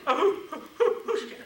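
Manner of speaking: high squeaky laughing who's scared; laughing denial. Retold or imitated. Doctor denying he was scared, laughing high.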